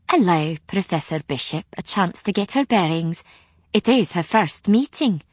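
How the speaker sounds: lightly voiced Scots witch; Scots accent. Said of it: "in a broad Scots accent".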